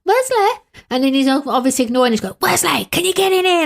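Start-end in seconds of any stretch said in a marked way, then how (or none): 0.0-0.5 high-pitched sitcom wife calling out; much higher, mimicked calling voice; Dame Thora Hird. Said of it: "Dame Thora Hird played her". 2.4-3.7 high mimicked wife's summons; imitated nagging call, pitched up; Dame Thora Hird. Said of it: "Dame Thora Hird played her".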